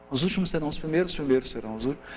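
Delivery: recitado depressa, de uma vez; recitado rápido. Shown as a demonstration. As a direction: solta a frase rápido, como ditado decorado. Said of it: "Que aí você grava". (recitação rápida)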